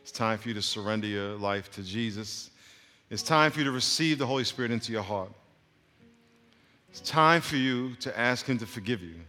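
measured invitation with long pauses; calm, earnest pastoral appeal; altar-call prayer. Real, not acted. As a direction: gently lead them phrase by phrase into prayer.

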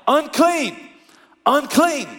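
high mock yell of unclean; yelled warning. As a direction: call out unclean from a distance. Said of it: "they would yell".

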